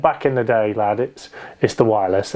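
lightly voiced northern English grandad, low; northern English accent. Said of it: "in his proper northern accent".

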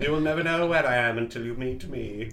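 spooky ghost voice. Acted. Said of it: "Why are you doing this voice".

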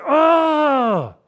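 loud, high raging shout; bellowing cry of rage. Shown as a demonstration. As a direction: roar it out like raging grief. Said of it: "He went something like this".

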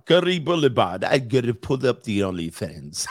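badly faked Indian accent; half-successful comic Indian accent; attempted Indian accent. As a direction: have a shaky go at an Indian accent. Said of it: "I can't do my Indian accent anymore".

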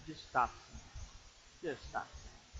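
very slow, soft whisper; whispered plea. Real, not acted. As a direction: whisper it gently but firmly. Hushed plea.

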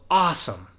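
lightly acted happy shout from the crowd; mock excited yell. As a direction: call it out like a delighted onlooker. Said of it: "a guy in the crowd yells".

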